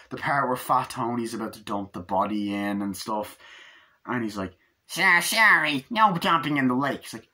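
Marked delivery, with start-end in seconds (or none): 4.9-7.0 high, stretched put-on character voice; official refusal. Lawman stops a mobster dumping at the lake, high refusal. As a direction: turn them away in a high, loud voice. Acted officer stopping Fat Tony.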